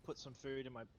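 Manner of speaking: chewing while talking. Real, not acted. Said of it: "Apologies for the munching sounds".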